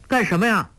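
startled. Acted. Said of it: "黄蓉吃了一惊".

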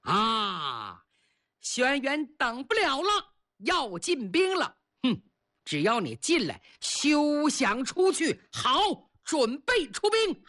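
Chiyou gloating over the trap; gleeful. Acted. Chiyou gloats as his enemy marches in, gleeful. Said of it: "欢喜若狂啊".

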